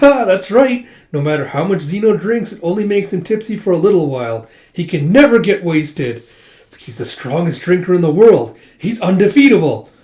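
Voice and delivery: animated retold boast; gleeful boast. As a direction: crow about an unbeatable champion. Retold boast about unbeatable drinker.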